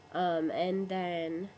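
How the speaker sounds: hoarse voice cracking on the words; sick, voice breaking up mid-phrase. Real, not acted. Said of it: "it's breaking up".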